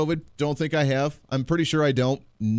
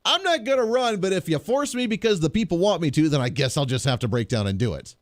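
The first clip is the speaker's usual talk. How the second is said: mock politician; 3 semitones higher than usual. Host mocking a politician's fake reluctance, hammed-up coy tone. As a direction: play a coy politician pretending he won't run. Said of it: "typical politician response".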